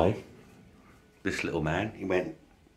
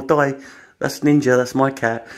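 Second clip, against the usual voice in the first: raised, higher call across the fence; shouting to neighbour; 5 semitones higher, 3 dB louder than usual. Retold or imitated. Owner calling to neighbour Di over the fence, raised voice. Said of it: "I'm sat shouting to Di".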